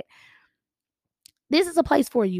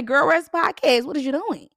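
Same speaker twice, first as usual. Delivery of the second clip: louder, higher nagging friend; bossy friend voice; 4 semitones higher, 4 dB louder than usual. Retold or imitated. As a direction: scold like a girlfriend checking in. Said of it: "message me and say".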